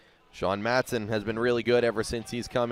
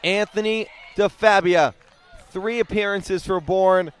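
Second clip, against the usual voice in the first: excited play-by-play; 6 semitones higher than usual. Real, not acted. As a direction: build it up as the catch happens. Catch against the fence.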